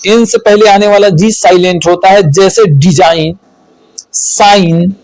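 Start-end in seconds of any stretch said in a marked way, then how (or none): 0.1-2.2 fast run-through of the rule; quick recap for students; quicker repeat. Shown as a demonstration. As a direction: rattle the rule off again quickly.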